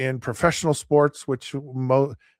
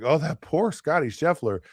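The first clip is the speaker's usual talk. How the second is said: higher, whiny fake pity for the golfer; sarcastic, higher mock-sympathetic whine; mock sympathy; 5 semitones higher than usual. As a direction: imitate fans pretending to be heartbroken. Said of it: "'cause I know you all are just like".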